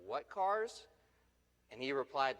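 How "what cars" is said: stammering. Retold or imitated. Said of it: "I, I, I stammered".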